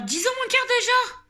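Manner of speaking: high, loud surprised question; startled by the time on the clock. Real, not acted. Surprised at the late hour.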